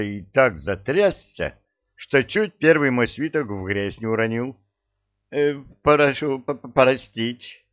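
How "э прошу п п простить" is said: frightened stammer, slow on "простить"; stammering mumble. Acted. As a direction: stammer out a scared apology. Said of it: "бормочет".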